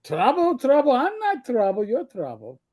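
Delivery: playful put-on Yiddish accent; Jewish hobbit. Hobbit throwing blame back, mock Yiddish accent. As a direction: bicker with a mock Yiddish inflection. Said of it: "my Jewish hobbits".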